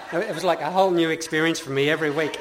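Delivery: loud laughing delivery. Real, not acted. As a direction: laugh through the line. Laughs while recalling confusion.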